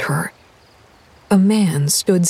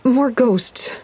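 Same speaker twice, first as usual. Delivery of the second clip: higher, wheezed on short breath; wheezing; 5 semitones higher than usual. Acted. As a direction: gasp it out in shock. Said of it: "Lydia wheezed".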